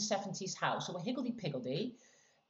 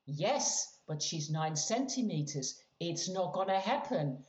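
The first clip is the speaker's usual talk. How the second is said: flat, unbothered delivery; deadpan midwife, lightly done; 3 semitones lower than usual. Retold or imitated.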